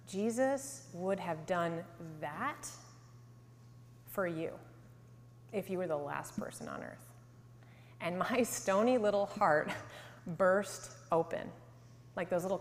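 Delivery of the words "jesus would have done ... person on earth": just above a whisper. Retold or imitated. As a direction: imitate a man's solemn near-whisper, fading softer. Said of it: "in just above a whisper".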